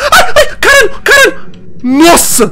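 shrieking high cry of terror; being chased. Real, not acted. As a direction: cry out as it catches you. Caught by impostor, crying out. (grito agudo de terror)

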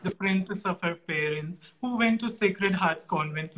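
measured, admiring host's introduction; formal tribute introduction. Acted. Host introduces admired actress as a journey from Punjab, formal tribute. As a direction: present the guest's life as a journey. Recites a prepared introduction of the guest.

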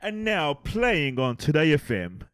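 slow, smooth radio announcer. Retold or imitated. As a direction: announce the next song like a DJ. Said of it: "you should be saying".

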